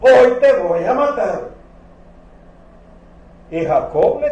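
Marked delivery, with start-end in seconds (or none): 0.0-1.4 loud, high furious threat; angry brother. Retold or imitated. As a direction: shout it with rage at the brother. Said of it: "Esaú se enoja".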